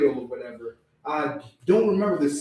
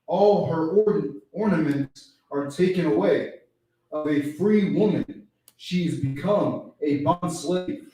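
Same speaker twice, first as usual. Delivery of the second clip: slow, measured reading of scripture; reading Bible verse to the study group, slow and deliberate; 4 dB louder, slower than usual. Acted. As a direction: read the verse slowly and solemnly. Reads scripture verse aloud.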